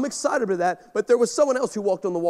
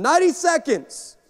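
countdown call; 7 semitones higher than usual. Retold or imitated. Producer counting down to live TV.

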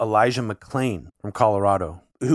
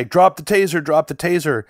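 louder, repeated order in imitation of a robotic cop; 5 semitones higher, 5 dB louder than usual. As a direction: imitate an officer's monotone command, lightly robotic. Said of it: "like, robotic".

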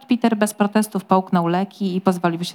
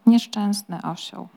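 tender note; slower than usual. Acted. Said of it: "pojawiła się czuła nuta".

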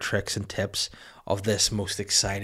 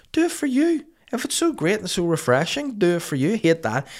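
ranting; 9 semitones higher, 3 dB louder than usual. Real, not acted.

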